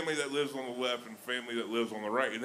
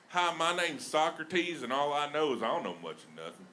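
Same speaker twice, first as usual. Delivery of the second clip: put-on Southern-accented Socrates; 3 semitones higher than usual. Comic introducing himself as a philosopher, Southern accent. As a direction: stretch the name, then rattle on in Southern twang. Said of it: "The best with Southern flair is philosophy".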